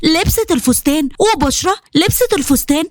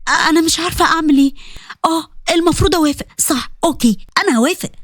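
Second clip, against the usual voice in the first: flustered to herself; faster than usual. Acted. Bushra talking to herself, flustered and fast. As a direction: rush it out, embarrassed. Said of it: "قالت لنفسها".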